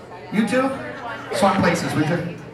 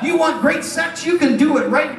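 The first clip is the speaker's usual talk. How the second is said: carried away; 5 semitones higher than usual. Pretend. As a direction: get carried away with the sales pitch. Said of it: "I got carried away".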